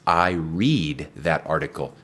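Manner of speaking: "read" said as /rid/ in "I read that article"; present-tense read. Shown as a demonstration. Teacher modelling present tense read for students. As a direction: say "read" with a long ee. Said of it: "se habla del presente".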